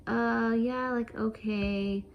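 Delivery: drawn-out, hesitant mock okay; reluctant agreement. Nurse reluctantly answers patient's request to stand, hesitant and drawn out. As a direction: imitate a half-hearted, stretched-out yes.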